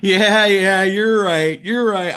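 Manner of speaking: high imitation of a fan snapping out of it; retold sudden realisation. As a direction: come to your senses with a high, flustered agreement. Fan realises it is only wrestling.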